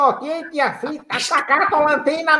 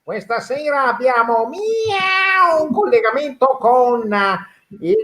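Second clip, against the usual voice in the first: slow radio host; slower than usual. Acted.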